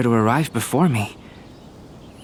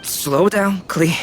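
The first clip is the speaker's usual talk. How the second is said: calling out; 8 semitones higher, much slower than usual. Acted. Calling after a running child.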